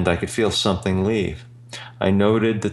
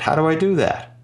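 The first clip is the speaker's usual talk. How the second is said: bewildered question; 8 semitones higher than usual. Retold or imitated. Baffled reply to inner voice.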